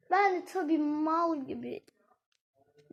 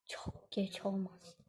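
slow whispery witch voice; cartoon witch voice; 6 semitones lower, 11 dB quieter, slower than usual. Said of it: "Çizgi filmlerin karakteri cadı gibi konuştum". (çizgi film cadısı gibi fısıltılı)

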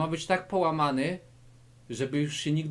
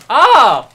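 sharp, loud fighting shout bursting out; short explosive battle cry; kiai yell; 8 semitones higher, 19 dB louder than usual. Acted. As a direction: yell like you're landing the kick. Kick strike yell.

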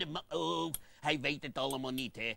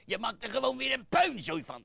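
annoyed scolding; 7 semitones higher, 6 dB louder than usual. Acted. Scolding partner.

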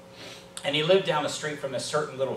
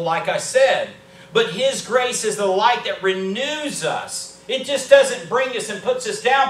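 raised pitch, loud emphatic preacher delivery; impassioned preaching; 6 semitones higher, 7 dB louder than usual. Real, not acted. Preacher declaring to the church that grace renews and forgives, impassioned. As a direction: preach it out forcefully, punching key words. Preacher building to full force.

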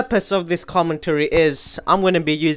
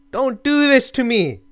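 pleading wail; 7 semitones higher than usual. Real, not acted. Gamer begs the game not to disconnect, high pleading wail. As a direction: plead with a falling high whine.

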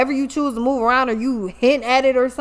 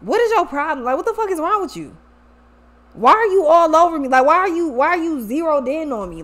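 acted-out annoyance, pitched up; indignant, higher-pitched questioning; exasperated confrontation; 4 semitones higher than usual. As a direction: imitate someone fed up with being crowded. Voices the partner's annoyed questions.

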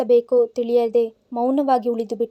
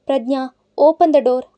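loud call; 6 dB louder, slower than usual. Acted. Drunk man at door, she's terrified.

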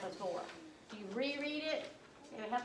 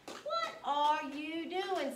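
reading aloud slowly; 4 semitones higher, much slower than usual. Shown as a demonstration. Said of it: "Say it".

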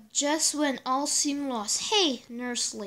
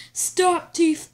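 loud hero yell; shouting cop; 2 semitones higher, 5 dB louder than usual. Acted. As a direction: yell it like a cop chasing a thief. Comic cop shouts at thief.

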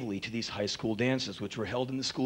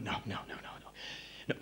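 fading no; 5 semitones lower, 12 dB quieter, much faster than usual. Retold or imitated. Losing courage, voice dying.

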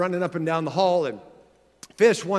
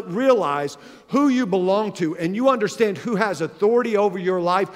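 ordinary talk, nothing marked

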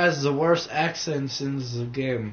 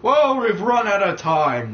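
higher mock-panicked outburst; mock alarm; 6 semitones higher, 4 dB louder than usual. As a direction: cry out in pretend panic. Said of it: "No, I'm joking".

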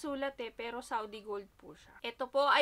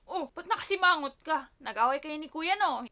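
louder, higher teasing concern; concerned asking; 3 semitones higher, 7 dB louder than usual. Retold or imitated. Asking her sulking sister, louder higher concern. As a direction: poke at her sister gently. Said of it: "sabi ko".

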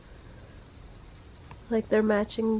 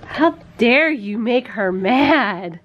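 mock scolding; 2 semitones higher, 10 dB louder, slower than usual.

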